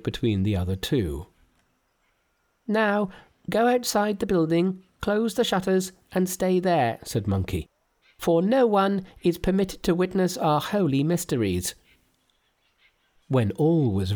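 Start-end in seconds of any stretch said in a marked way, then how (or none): 2.7-11.7 Monkey as deity addresses the kneeling Taoists, very high. Acted. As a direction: speak down to them like a god.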